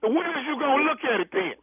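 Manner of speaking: impatient, heated demand; real worked-up challenge; yelling. Real, not acted. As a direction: demand an answer forcefully. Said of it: "if you keep yelling".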